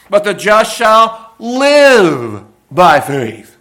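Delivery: loud, slow, every word weighed; proclaimed verse. Acted. Preacher proclaims the key verse, loud and slow. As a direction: proclaim it slowly.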